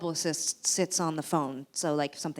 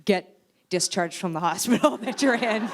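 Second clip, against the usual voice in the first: sarcastic publicist; 3 dB louder than usual. Retold or imitated. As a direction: sweetly shut the call down.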